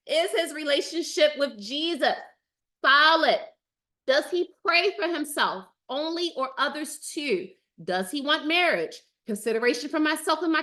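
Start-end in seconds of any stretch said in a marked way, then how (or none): 0.1-7.0 worked up. Real, not acted. Host rereads a viewer's question to the chat, worked up. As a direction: hit solid hard, fired up. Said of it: "y'all got me worked up".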